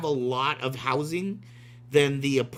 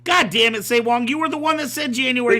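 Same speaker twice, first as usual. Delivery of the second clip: higher, louder mock frustration; mock exasperated; 8 semitones higher, 6 dB louder than usual. Real, not acted. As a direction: complain with playful outrage.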